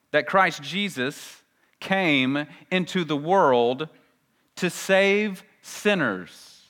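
deliberate, measured reading of a Bible verse; scripture reading. Acted. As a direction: read the verse out solemnly, with weighty pauses. Reads the scripture verse aloud.

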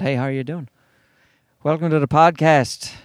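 a lightly put-on Irish accent; Irish-accented welcome, lightly done; switched to Irish accent. Shown as a demonstration. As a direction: try out an Irish-accented podcast intro. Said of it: "maybe I could just switch my accent".

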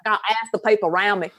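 Southern US country accent slipping out; quick Southern twang, half laughing. Real, not acted. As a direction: let a strong Southern accent slip through, amused. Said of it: "my country accent came out there bad".

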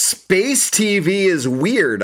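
slow deadpan. Acted. Slow mock wonder.

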